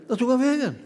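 high, laughing puzzled question; amused surprise. Retold or imitated. Preacher recalling the devil vanishing, asks it laughing high. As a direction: act baffled that the giant just vanished. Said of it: "tittade efter honom så här och tänkte så här".

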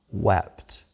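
whispered wept, hushed and slow; hushed reverent whisper. Acted. Reveals word meaning, whispered.

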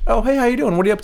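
bright, high, chatty greeting; friendly stranger. Retold or imitated. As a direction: play the cheery stranger in line. Acting a friendly stranger in line.

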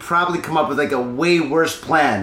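wasted. Real, not acted. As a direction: talk like you're wasted. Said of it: "we're super wasted right now".

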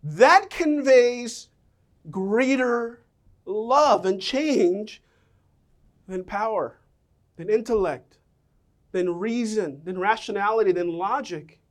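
slow, measured and sincere; earnest son. Retold or imitated. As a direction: let each phrase land slowly. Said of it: "he was like".

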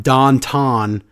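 slow mock Pennsylvania Dutch "downtown"; imitated Pennsylvania Dutch vowels; Pennsylvania Dutch accent. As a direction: say "downtown" as "dahn-tahn", Pennsylvania Dutch style. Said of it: "I don't know what accent".

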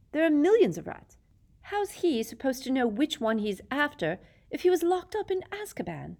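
put-on high, disbelieving teen; incredulous boy. A narrator's reading. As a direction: protest in disbelief. Ron voiced, incredulous.

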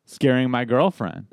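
imitating an indignant boyfriend, drawn-out words; mock-indignant, stretching out the accusation; slow, mildly upset retelling. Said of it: "he's upset too because he's going".

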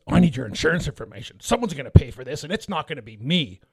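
lightly voiced demanding Karen; a hint of mock Karen entitlement. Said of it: "That was a good Karen voice".

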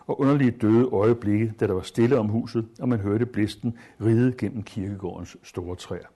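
measured literary read-aloud voice; story reading. Acted. Teacher reading a wartime story aloud to students, measured. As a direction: read the passage to the class with care.

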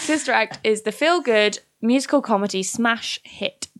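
selling it like a show advert; pitching the musical to a radio audience, salesy; promo read. Acted. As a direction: read the blurb like a trailer voice-over. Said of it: "You have sold it".

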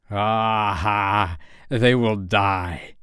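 slow gloating villain laugh line. Acted. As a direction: savour it like a villain. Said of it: "He burst into laughter".

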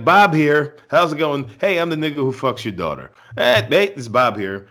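high, loud breezy phone greeting; mock cheery Bob. Bob phoning the parents like nothing's wrong, hammed-up cheer. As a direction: play it as a chipper casual caller. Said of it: "It's like".

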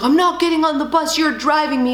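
lightly voiced defiant little boy; a hint of a kid refusing, stubborn; stubborn son. Son refusing the bus, mild stubborn whine. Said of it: "he's like".

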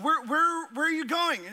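startled at the wrong turn; alarmed passenger. Retold or imitated. Passenger asking a driver heading the wrong way, alarmed.

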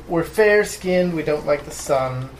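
put-on German accent. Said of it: "a German accent of some sort".

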